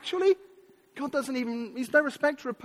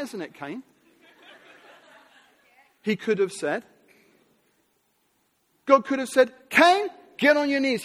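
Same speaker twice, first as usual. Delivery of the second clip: harsh domineering God; 5 dB louder than usual. Pretend. Preacher voicing a harsh God ordering Cain down. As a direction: play a bullying God demanding worship. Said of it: "He doesn't show up and say".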